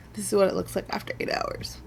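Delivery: fast embarrassed whisper; sheepish whisper. Real, not acted. Vlogger showing worn makeup to viewers, whispered. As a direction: hurry it out in a guilty whisper. Sheepish reveal after confessing neglect.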